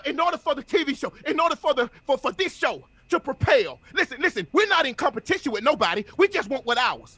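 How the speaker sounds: full-force, rousing preacher delivery; motivational preaching. Real, not acted. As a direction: fire up the listeners like a preacher.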